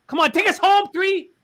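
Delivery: high, urgent cheering; yelling at a horse race. Real, not acted. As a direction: scream your horse home. Cheering his horse home.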